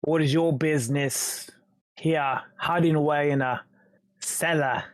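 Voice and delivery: lightly voiced British gangster questioning. Intruder questions man hiding in cellar, British gangster accent. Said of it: "sounding like a British gangster".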